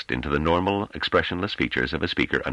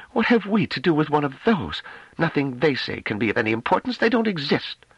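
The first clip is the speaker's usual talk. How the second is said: higher, dismissive scorn; contemptuous woman's voice; 14 semitones higher than usual. Acted. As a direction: sneer at the very idea. Delaarmy contemptuous.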